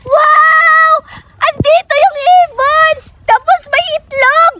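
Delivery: high-pitched, stretched-out wonder; amazed discovery. Acted. Child finding a bird with eggs, amazed. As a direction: marvel at it in a high voice.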